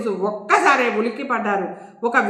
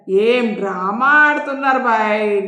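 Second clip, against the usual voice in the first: slow, amused scoffing line; laughing; 5 dB louder, slower than usual. Acted. Inspector mocking the so-called drama, laughing. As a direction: laugh it off as a joke. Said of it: "నవ్వుతూ అన్నాడు".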